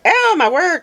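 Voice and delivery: retelling a shocked outburst; retold alarmed cry. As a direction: cry out at a sudden crunch. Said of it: "I literally did scream".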